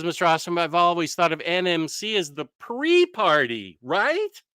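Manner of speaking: chewing gum while talking; mouth full. Real, not acted. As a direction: talk around a piece of gum. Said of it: "I had gum in my mouth".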